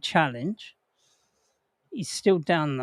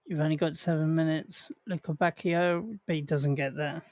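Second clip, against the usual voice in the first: quiet; 6 dB quieter than usual. Real, not acted. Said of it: "I've gotta be a bit quiet now".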